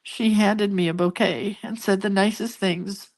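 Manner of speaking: fighting back tears while telling it; choked up, on the edge of crying; voice breaking. Real, not acted. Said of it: "I'm gonna cry even talking about it".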